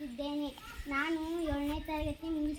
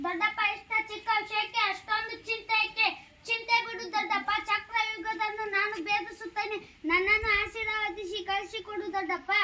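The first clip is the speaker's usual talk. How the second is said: put-on higher and louder, bold young warrior declaiming; eager heroic plea; 4 semitones higher, 5 dB louder than usual. Young Abhimanyu begs his uncle to send him, loud and eager. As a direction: proclaim it with a young hero's fire.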